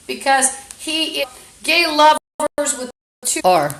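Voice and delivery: talking through hiccups; hiccuping between words. Real, not acted. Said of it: "Excuse me, I'm hiccuping".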